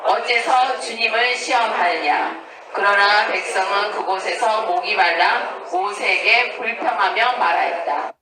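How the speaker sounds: slow, measured recitation; scripture reading. Acted. Teacher leading the group through an Exodus passage, slow reading aloud. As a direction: read the passage aloud slowly, phrase by phrase.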